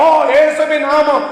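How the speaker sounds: slow, drawn-out mock invocation. Preacher mimicking believers trying to scare the devil, mock invocation. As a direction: draw it out like a hollow war cry. Mocking church-goers' noisy invocation.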